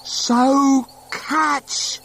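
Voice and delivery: high, loud call. A narrator's reading. Once-ler calling down to the boy, high and loud. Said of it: "calls the Onceler".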